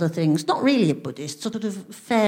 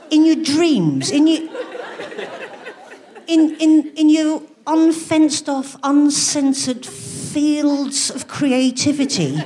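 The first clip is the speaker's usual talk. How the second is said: mock-grand; 4 semitones higher, much slower than usual. Mock-grand rant about dreaming.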